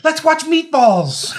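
high giggly laughing line. Real, not acted. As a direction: laugh through the words. Giddy laughing joke.

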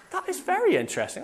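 high, quick, softened voice of intrigue; intrigued. Retold or imitated. Preacher retelling his reaction to the German expression, intrigued.

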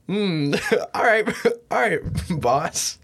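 laughing reply. Retold or imitated. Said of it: "I'm like".

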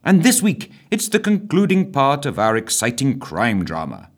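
put-on bright old-time radio presenter; cheery announcer introducing the story. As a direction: announce the programme like a wireless host.

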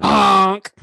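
loud nasal honking goose. Pretend. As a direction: honk it out like a goose. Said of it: "That's my goose impression".

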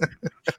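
kurzes Lachen. Real, not acted. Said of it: "Lach nicht".

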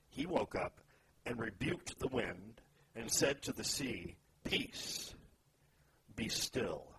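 measured reading aloud with deliberate pauses; solemn storytelling from scripture. Acted. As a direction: read the Bible passage out, phrase by phrase. Reads scripture aloud to open discussion.

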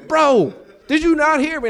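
very high, slow, exasperated plea. Retold or imitated. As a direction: stretch it out high, baffled. Frustrated at pastor.

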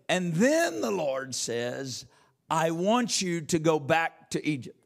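slow, emphatic preacher's cadence; preaching. Acted. Preaches at full force.

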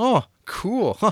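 high, lightly voiced "oh cool"; casual reply. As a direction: shrug it off, acting it. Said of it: "And it's like".

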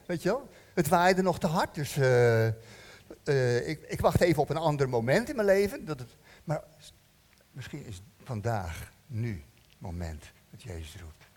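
lightly voiced lazy excuses; mock excuse-maker. A believer putting Jesus off with excuses, lightly mocking. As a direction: make excuses with a shrug. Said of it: "Dan kun je erover hebben later".

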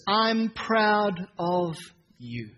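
slow, softening to a near hush; tender affirmation. Shown as a demonstration. Preacher showing parents the words children need, slow and tender. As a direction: let the words land slowly. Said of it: "They need to hear the words".

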